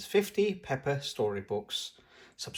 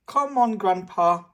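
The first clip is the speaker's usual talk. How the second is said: high, louder call of a little pig; shouting; 7 semitones higher, 7 dB louder than usual. A narrator's reading. Peppa shouting to Grandpa at the playground, high and loud. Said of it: "shouts Peppa".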